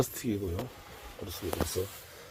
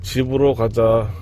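slow, loud, clear command; talking to voice assistant; 5 dB louder, slower than usual. Real, not acted. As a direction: articulate the command for the car. (음성 비서에게 또박또박 명령)

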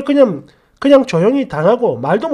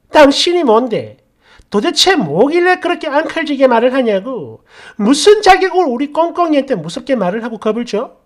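angry mother; 3 semitones higher, 4 dB louder than usual. Retold or imitated. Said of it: "사람을 잡아먹을 듯한 살기를 온몸으로 뿜어대면서".

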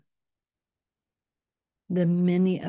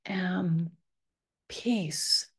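whispered together; 3 semitones higher, 5 dB quieter, much slower than usual. Shown as a demonstration. Guide leading everyone to say it together, whisper. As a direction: whisper it for all to repeat. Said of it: "Say it with me".

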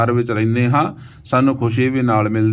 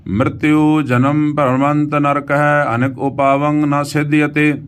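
slow, sustained Gurbani reading; measured verse chant on an even pitch; scripture recitation; 2 semitones higher, slower than usual. Acted. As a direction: recite with long drawn vowels.

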